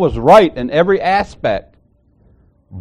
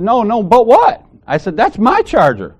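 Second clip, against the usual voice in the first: mock indignant; 8 semitones higher, 3 dB louder than usual. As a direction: throw her words back at her. Retold argument, mocking her claim.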